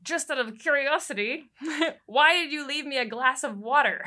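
a hint of the annoyed husband, laughing through it; imitating the husband, laughing; gritting his teeth. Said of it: "gritting his teeth".

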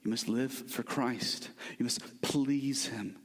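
softly laying down the law; hushed commands, slow and firm; quiet stern command. Retold or imitated. The Bible confronting lazy believers, hushed and stern. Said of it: "it comes to us and says".

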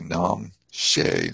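"Nam She" slowly, starting straight on the N; silent R. Shown as a demonstration. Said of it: "don't pronounce the R".

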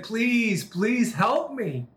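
imitating a tearful plea, high and drawn out; tearful pleading. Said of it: "And she's crying".

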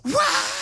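sudden high-pitched loud wail; imitated child's scream. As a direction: scream like a little boy in a fury. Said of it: "screams of bloody murder".

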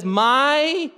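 "My" hit high and firm; emphatic my. Shown as a demonstration. Preacher stressing Jesus' own assembly, emphatic "My". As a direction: lean hard on "My". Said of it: "is emphatic".

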